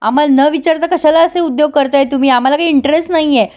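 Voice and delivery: angry son. Retold or imitated. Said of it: "युवराजला खूप राग येतो".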